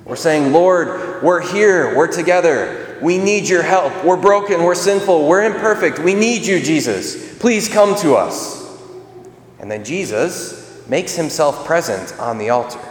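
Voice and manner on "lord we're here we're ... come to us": higher, urgent plea to the Lord; pleading prayer. Retold or imitated. Congregation at Mass pleads to Jesus, higher and urgent. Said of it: "we're crying out to Jesus".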